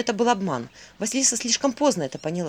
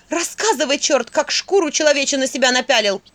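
loud, higher, angry interrogation; angry demand; 5 semitones higher, 6 dB louder than usual. Acted. Vasilisa exposes the devil in the bathhouse, angry loud demand. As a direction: confront the devil head-on.

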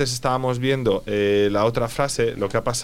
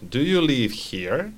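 slower careful question, rising end; slow model repeat; slower than usual. Shown as a demonstration. Teacher repeats student answer, slowly and clearly. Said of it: "Very good".

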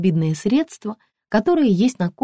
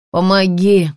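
desperate call for help; 5 dB louder, slower than usual. Acted. Injured man calls from doorway.

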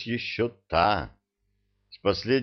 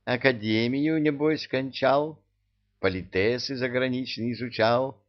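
mocking witch; 4 semitones higher than usual. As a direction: savour each word like a playful witch. Witch mocking the young mage.

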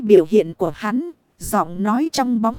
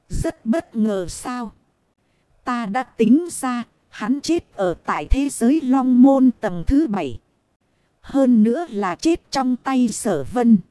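slow and calm. Acted. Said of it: "Giọng nói trong bóng tối chậm rãi, giọng điệu vô cùng bình thản".

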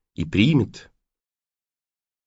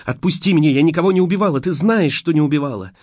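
tearful pleading; 6 semitones higher, 4 dB louder, faster than usual. A narrator's reading. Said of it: "но слёзы захлёстывали лицо".

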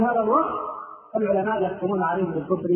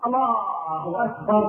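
exaggerating worshipper; much slower than usual. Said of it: "وبعض الناس يبالغ".

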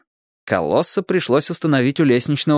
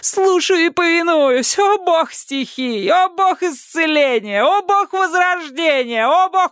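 much higher, slow, worshipful king; king's voice; slower than usual. A narrator's reading. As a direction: chant his praises slowly and high. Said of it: "твердил король Яш".

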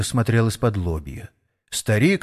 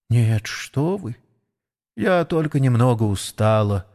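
weary ailing horse Mary; 3 semitones higher than usual. Acted.

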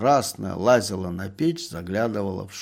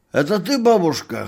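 hoarse merchant; 9 semitones higher, 8 dB louder than usual. A narrator's reading. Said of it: "хрипел купец".

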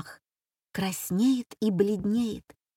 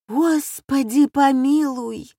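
put-on a slow, high, louder old-nanny groan; 6 semitones higher, 4 dB louder, slower than usual. Nanny behind the door groans at the tooth story, slow and high. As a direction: sigh it out slowly like a fretful old nanny. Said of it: "охает нянька".

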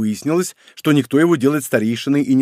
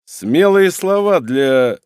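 slow drawn-out taunt; 3 semitones higher, 4 dB louder, much slower than usual. Acted. Villain cut off mid-threat.

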